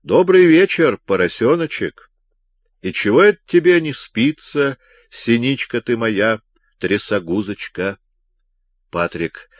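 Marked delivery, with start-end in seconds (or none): 0.0-8.0 mock-friendly greeting. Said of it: "приветствовал его по-дружески".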